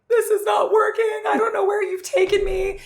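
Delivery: high, loud retold outburst at her partner; reliving the fight at full volume, yelling; angry shout. Yelling at her partner, lost at night in Ratchaburi, furious. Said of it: "I was so angry".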